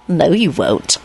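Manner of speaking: gleeful taunting hiss; grinning hiss. Acted. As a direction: taunt him through a grin. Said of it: "Lupin hissed, grinning".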